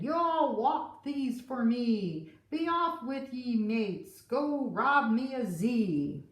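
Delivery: pirate captain. Acted. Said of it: "roared the captain".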